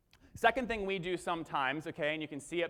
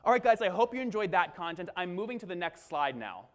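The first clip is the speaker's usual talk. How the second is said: webinar host. Shown as a demonstration. Demonstrating a live webinar line to the room, webinar host. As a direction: slip into presenter mode for the audience. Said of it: "act like we're on a webinar".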